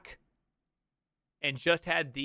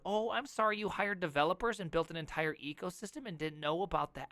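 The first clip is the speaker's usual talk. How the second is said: mock sorry; 6 dB quieter than usual. Mock apology to Excel customers.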